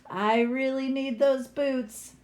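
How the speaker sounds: slow, gentle and reassuring; calm the troll twins down, slowly. Acted. Girl reassuring the troll twins, slow and gentle. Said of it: "I said reassuringly".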